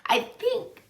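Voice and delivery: halting, teary confession to viewers; crying. Real, not acted. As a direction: speak through real tears, voice catching. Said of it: "oh my gosh, I am crying".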